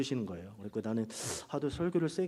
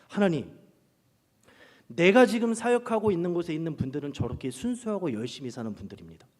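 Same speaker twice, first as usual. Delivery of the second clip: angry complaint to God; 4 dB louder than usual. Retold or imitated. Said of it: "제가 막 하나님께 화를 냈어요".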